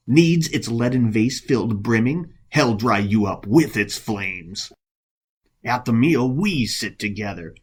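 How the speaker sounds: understated bitter spite; spiteful monk. Acted. Monk curses the rival at his flower vase, understated spite. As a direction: let resentment seep through the verse. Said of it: "almost overwhelmed with spite and rage".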